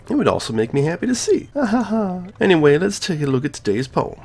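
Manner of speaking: friendly club leader voice, only lightly put on; lightly voiced Monika. Gamer reading Monika's lines as a cheerful club leader.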